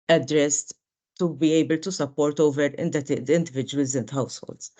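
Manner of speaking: hoarse, worn-out voice from being sick; losing voice. Real, not acted. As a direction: speak with a voice that's nearly gone. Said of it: "the lack of voice, but I'm a bit sick".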